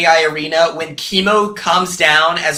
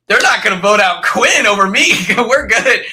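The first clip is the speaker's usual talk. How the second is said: higher, excited mock relief; retold excitement; 4 semitones higher than usual. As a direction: imitate a thrilled housemate, laughing midway. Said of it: "he was so excited".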